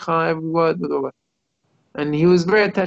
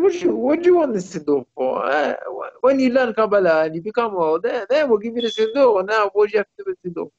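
higher-pitched, lightly acted brush-off; retold fatherly objection, pitched up; dismissive father; 5 semitones higher than usual. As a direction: put the child off like an incredulous father. Father refusing his little son.

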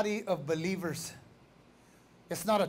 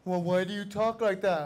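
lightly voiced, lowered questioner; imitated questioner. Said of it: "people tell me that all the time".

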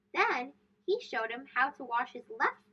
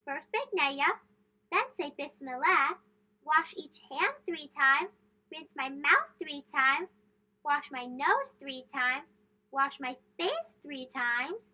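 reciting the steps; 2 semitones higher, slower than usual. Acted. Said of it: "repeated the steps in his head".

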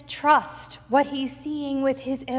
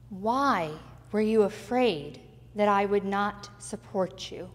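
slow, gentle questioning; slower than usual. Acted. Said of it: "phrase that Jesus utters to Peter".

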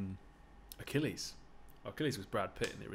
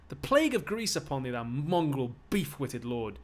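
angry cursing; 3 semitones higher, 5 dB louder than usual. Acted. Beaten slave curses master.

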